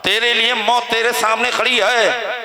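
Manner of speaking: ringing, declaimed threats of revenge; angry boasting. Acted. Enraged father threatens his sons' killer, angry boasting. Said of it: "बहुत गुस्से में था".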